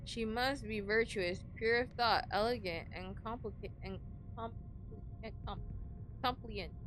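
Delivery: quiet, held-back sneeze voice; holding back a sneeze. Real, not acted. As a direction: speak while stifling a sneeze. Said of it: "Trying not to sneeze so hard".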